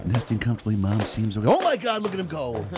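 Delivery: lightly voiced play-by-play; mock sports commentary. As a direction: call it like a sportscaster. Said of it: "you should do a sportscaster impression and call".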